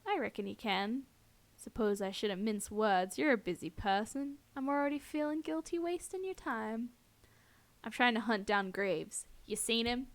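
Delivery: lightly voiced cowboy villain, drawn-out words; a touch of syrupy Western drawl; saccharine drawl. Stalker hunting a guy questions her, light saccharine drawl. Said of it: "drawling voice is saccharine venom".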